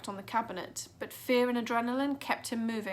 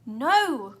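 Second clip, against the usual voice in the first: loud high scream of no; girl screaming no; 4 semitones higher, 10 dB louder than usual. A narrator's reading. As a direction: scream it in panic. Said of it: "Clarissa screamed".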